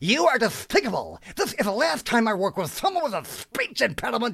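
very high, swooping pitch in a cartoon hero voice. Recalling doing his own version of his cartoon heroes, cartoon hero voice impression. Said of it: "doing my version of my heroes".

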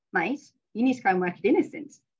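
horribly bad, dodgy put-on New Zealand accent. Quoting a New Zealander she worked with, who said it daily: horribly dodgy Kiwi accent. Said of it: "forgive my horribly dodgy Kiwi accent".

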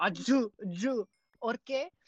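slow Spanish-accented teacher voice.

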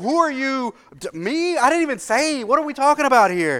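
very high, flustered, startled, alarmed voice. Speaker retells reacting when the passenger in the truck suddenly shouts, retelling being freaked out. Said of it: "And it freaked me out a little bit".

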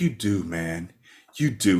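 soft, low, soothing murmur.

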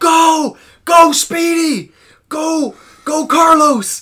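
very high, very loud, drawn-out, shrill cheering screams. Retelling a turtle race on the beach, imitating screaming. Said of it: "we just start screaming".

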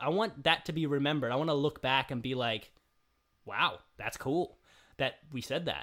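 normal talking voice

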